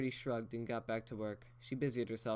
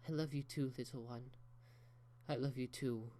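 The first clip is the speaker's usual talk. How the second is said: tender; 3 semitones higher than usual. Acted. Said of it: "Rarity was crying right along with her".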